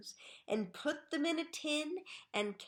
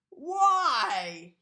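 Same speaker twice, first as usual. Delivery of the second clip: loud demanding question; 3 semitones higher, 9 dB louder than usual. A narrator's reading. Mr Twit asks again.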